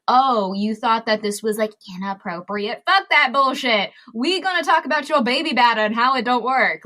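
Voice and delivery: sass it, swatting the taboo away; mock defiant. Acting out blunt comedy voice.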